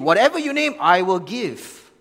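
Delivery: grand bride price offer. Retold or imitated. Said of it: "this great name your bride price attitude".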